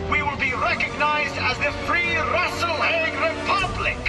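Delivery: orator's swelling declaration; rousing proclamation. Acted. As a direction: proclaim independence to a crowd, rising in pitch. Political speech declaring independence.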